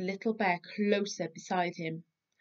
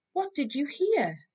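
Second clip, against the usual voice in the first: Big Bear asking; 8 semitones higher, 4 dB louder than usual. Acted. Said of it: "said Big Bear".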